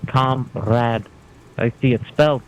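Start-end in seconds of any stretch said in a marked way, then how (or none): 0.1-1.1 'Comrade' said in two syllables, ending on the d; a deliberate, clipped two-beat 'Comrade'; showing pronunciation. Shown as a demonstration. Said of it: "We pronounce it comrade".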